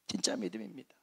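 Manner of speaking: low, whispered affirmation; hushed emphasis. Real, not acted. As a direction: drop to a hush to let it sink in. Hushed repeat of key point.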